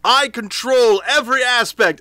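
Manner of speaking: booming, slow, high declaration; grandiose Dungeon Master. Pretend. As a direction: proclaim it like an all-powerful ruler. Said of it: "And I say".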